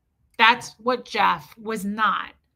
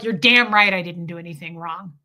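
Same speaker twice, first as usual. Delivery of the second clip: louder, defiant mock husband; ex-husband doubling down on his wife, a bit louder; 4 semitones lower, 4 dB louder than usual. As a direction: push back hard, refusing all blame. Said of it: "He'd double down".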